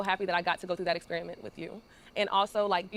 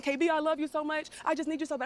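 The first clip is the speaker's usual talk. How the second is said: high, whiny mock plea of a boyfriend on his knees; a hammed-up begging lover; mock pleading; 7 semitones higher than usual. Wife mocks husband begging on his knees, high and whiny.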